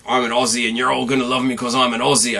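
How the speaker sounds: hammed-up Australian accent, bragging like a cocky influencer; a quick, sloppy Aussie impression, half-embarrassed; mock Australian accent. Mocking the wrestler's cocky gimmick in a bad Australian accent. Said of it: "I shouldn't do accents".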